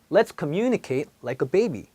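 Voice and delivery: put-on Let's communicate like a baby, spoken very slowly with long stress; slow demo sentence. Shown as a demonstration. Teacher models the second example sentence slowly. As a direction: model the phrase slowly word by word. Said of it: "두 번째 또 예를 볼게요".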